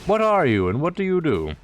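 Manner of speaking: strained, pushed-up high voice; straining hard. Real, not acted. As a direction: voice strained and climbing. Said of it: "I keep straining my voice".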